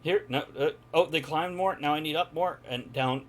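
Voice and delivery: fussy self-talk. Acted. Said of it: "she talks it out the whole time".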